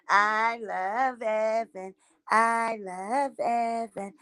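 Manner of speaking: slow, soft doting coo. Real, not acted. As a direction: murmur it lovingly.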